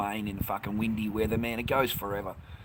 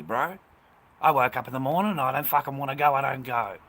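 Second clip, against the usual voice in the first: defiant rant; 4 dB louder than usual. Real, not acted. Telling off a viewer demanding reasons.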